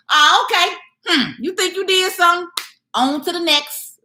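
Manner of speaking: high-pitched, sassy brush-off; mock dismissive. Speaker acting out her comeback to platforms that censor her, mock dismissive.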